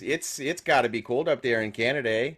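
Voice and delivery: lightly hammed-up Canadian accent with a tagged-on eh; mock Canadian accent. Imitating North Dakotans teasing a Canadian, mock Canadian accent. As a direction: put on a stereotyped Canadian accent.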